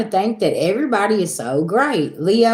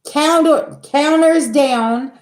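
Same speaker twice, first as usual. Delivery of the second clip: slow emphatic; 7 semitones higher, 3 dB louder, much slower than usual. Real, not acted. Mock wiping counters.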